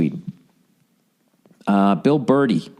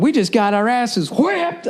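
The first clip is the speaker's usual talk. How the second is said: mock glum lament; 11 semitones higher, slower than usual. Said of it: "I already knew I was going".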